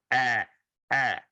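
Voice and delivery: "é" said with an open vowel; a wide-open "é", held on its own; open Portuguese é. Shown as a demonstration. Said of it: "que é diferente do".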